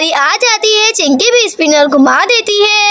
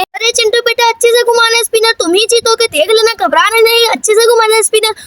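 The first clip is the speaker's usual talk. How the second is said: lightly higher, quick motherly cheering; encouraging mother; 3 semitones higher, faster than usual. Acted. Mother cheering her son at the spinner, higher encouraging voice. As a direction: coax him gently, no need to panic.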